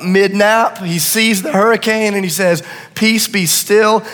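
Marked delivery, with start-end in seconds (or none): 3.0-4.0 calm command. Acted. Jesus commands the storm.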